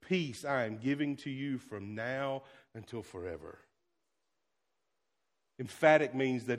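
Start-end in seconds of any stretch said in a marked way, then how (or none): 0.0-3.6 solemn promise. Retold or imitated. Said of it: "it was".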